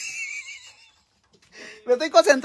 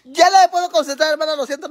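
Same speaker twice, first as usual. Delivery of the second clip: higher-pitched fed-up whine; mock exasperation; 5 semitones higher, 4 dB louder than usual. Streamer apologizing because dad ruins her act, mock exasperation. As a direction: give up in playful frustration. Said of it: "me está sacando de mis casillas".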